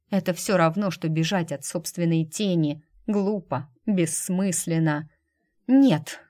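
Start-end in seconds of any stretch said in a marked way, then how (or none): 5.7-6.2 a higher, louder burst of refusal; woman refusing to leave him, loud and defiant; exhaled defiant no. Acted. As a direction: throw the no straight into his face. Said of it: "выдохнула она ему в лицо".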